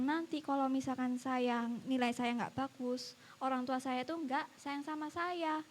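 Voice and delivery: slow, softened admission; humble confession. Retold or imitated. Pupil confesses fear of bad marks to teacher, humble and slow. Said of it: "dengan segala kerendahan hatinya dia".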